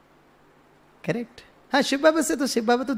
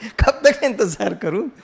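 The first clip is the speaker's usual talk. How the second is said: laughing. Real, not acted. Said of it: "But that's a good answer".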